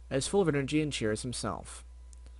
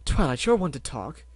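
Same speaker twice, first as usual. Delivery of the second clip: shriek; 6 dB louder than usual. Acted. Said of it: "Rarity shrieked".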